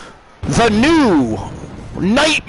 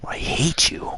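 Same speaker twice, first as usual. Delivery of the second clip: hushed, strained grunt of a whisper; 9 dB quieter than usual. Shown as a demonstration. Streamer redoing the line for chat, strained whisper. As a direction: squeeze it out like you're on the toilet. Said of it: "without sounding like you're on the shitter".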